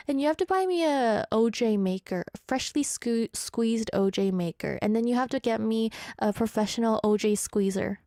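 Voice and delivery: breathless after a long list; running out of air mid-list; out of breath. Real, not acted. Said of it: "I'm out of breath".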